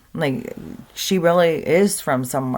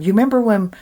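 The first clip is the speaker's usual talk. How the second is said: put-on higher, louder kid voice; imitated kid; 7 semitones higher, 5 dB louder, much faster than usual. Kid springing a past-life memory on parents, imitated child. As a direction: pipe up like a child. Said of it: "saying weird things to parents".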